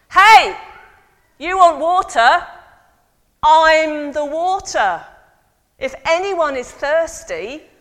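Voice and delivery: high, loud call that breaks into the service; Jesus interrupting the service from the back; shouting from the back. Acted. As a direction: shout it across the temple. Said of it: "some bloke stands up at the back and says".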